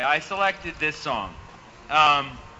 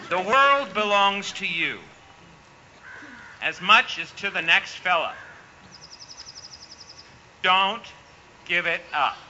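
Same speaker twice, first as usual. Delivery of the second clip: put-on Maine accent. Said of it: "I'm trying to do my Maine accent".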